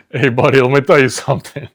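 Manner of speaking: loud, hammy Jersey Italian workers; Jersey Italian tough guys. Acted. Two grocery workers bonding, loud hammy Jersey Italian accent. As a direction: ham it up as gabagool-loving tough guys. Acting out supermarket Jersey skit.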